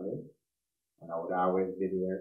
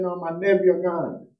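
much higher, louder and slow, like a cry of grief; retold anguished reply; 11 semitones higher, 9 dB louder, slower than usual. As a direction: let the words climb high and drag out in shock. Retold phone call, father's reply.

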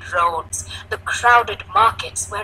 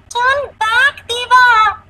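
put-on high, loud frightened child; fearful shout; 8 dB louder, slower than usual. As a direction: cry out in alarm to a friend. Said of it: "Jaya fearfully shouted".

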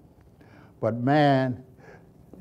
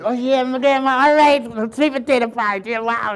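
much higher, loud, excited cry; boy thrilled about the pie; delighted child; 11 semitones higher, 8 dB louder than usual. Retold or imitated. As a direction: squeal like a kid promised pie.

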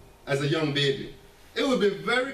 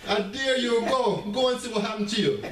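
lightly Jamaican, daring the son; a touch of a Jamaican parent's warning; Jamaican accent; 4 semitones higher than usual. Retold or imitated. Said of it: "in a little Jamaican accent".

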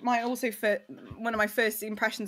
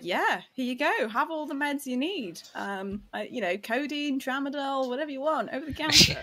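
higher-pitched, easygoing imitation of a generous seller; breezy mock offer; 5 semitones higher than usual. Pharmacy seller to excited medics, breezy mock offer. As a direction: play it as a casual "help yourself".

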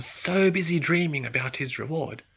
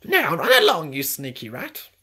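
shooing off; 9 dB louder than usual. Acted. Duck shoos away rat.

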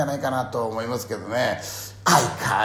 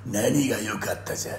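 angry shout; 3 semitones higher, 5 dB louder than usual. Retold or imitated. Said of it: "っつって".

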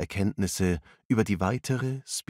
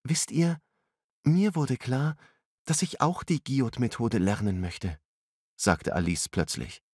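put-on higher girl's voice, earnest; eager young woman; 6 semitones higher than usual. A narrator's reading. Alice telling friends she wants to learn, high and earnest. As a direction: share a sudden decision.

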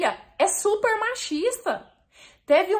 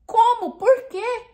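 retold shocked disbelief; 8 semitones higher, 3 dB louder, slower than usual. Retelling her shock at message.

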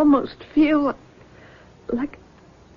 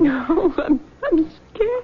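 frightened. Acted. Frightened daughter after hospital.

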